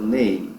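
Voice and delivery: "name" ending on lips shut for the M; closed final M. Shown as a demonstration. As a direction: close "name" firmly on a hummed M. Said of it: "a boca fecha quando o M aparece". ("name" fechando a boca no M)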